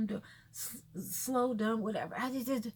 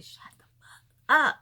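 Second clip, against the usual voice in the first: last word blasted much louder; exasperated outburst; 10 dB louder than usual. Real, not acted. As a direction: build to an explosive final "up". Exasperated demand, punched last word.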